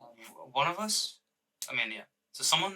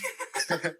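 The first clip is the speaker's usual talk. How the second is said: sobbing sound; 5 semitones higher than usual. Pretend. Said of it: "You're just gonna sob the entire time".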